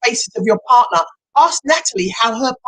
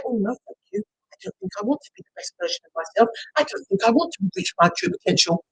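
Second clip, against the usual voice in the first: softer, understated turning-down of an offer; mock polite refusal; 5 dB quieter than usual. Coach voices someone turning down the gift, mock polite refusal. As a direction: play a quiet no-thank-you.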